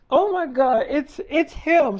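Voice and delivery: mock awestruck fan, slowing on the last words; retold gush of disbelief; star-struck. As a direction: imitate being overwhelmed by your idol. Acting star-struck co-star, near tears.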